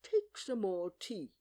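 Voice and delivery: slow, emphatic offer; earnest. A narrator's reading. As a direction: press it on them earnestly. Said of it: "said to Alice very earnestly".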